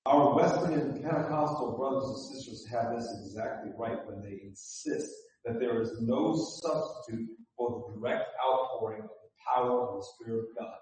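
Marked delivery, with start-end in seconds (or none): 4.1-10.7 quick and quiet. Shown as a demonstration. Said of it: "Let me say that again".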